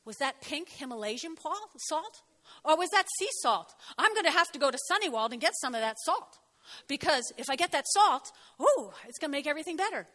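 lightly sends up a gullible churchgoer; flaky Christian. Pretend. Flaky Christian gushing over healing salt, mildly mocked. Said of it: "But this would be weird flaky".

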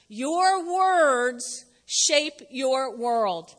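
very slow, word by word. Shown as a demonstration. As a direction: let each word land alone. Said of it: "Write it down".

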